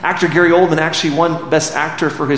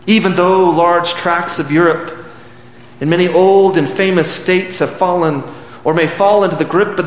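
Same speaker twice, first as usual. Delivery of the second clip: oratorical recitation. Acted. Preacher recites Churchill's speech to the congregation, solemnly. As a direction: declaim it to a nation.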